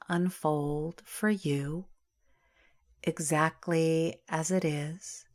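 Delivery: calm, unhurried meditation voice with long pauses; guided meditation. Acted. Yoga teacher settling listeners into Yoga Nidra, guided meditation. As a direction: ease them into rest, phrase by phrase, drawing out key words.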